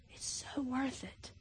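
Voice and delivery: very soft, slow repeat; dropped to a hush. Real, not acted. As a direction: let it fall to almost nothing. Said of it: "repeated refrain".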